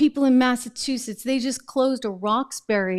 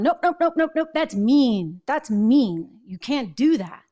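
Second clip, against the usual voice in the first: high, sing-song mocking nope; lightly hammed-up whiny liberal voice; mock whiny refusal; 3 semitones higher than usual. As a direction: parody a prissy scold brushing off the idea. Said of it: "they double down on".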